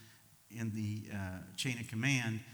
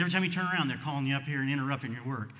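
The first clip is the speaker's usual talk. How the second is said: annoyed outburst; 3 semitones higher, 7 dB louder, faster than usual. Retold or imitated. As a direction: let the frustration burst out this time. Repeated complaint, louder.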